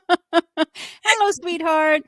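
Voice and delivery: high, playful put-on British greeting; British accent. Host welcoming her British guest in a mock British accent. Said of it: "That was a good accent".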